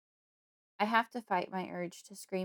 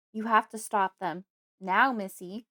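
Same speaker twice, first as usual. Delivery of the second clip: louder, urgent yell into her face; 8 dB louder than usual. A narrator's reading. Father yelling at his daughter to stop the family. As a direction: bark the order right in her face. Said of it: "he yells to my face".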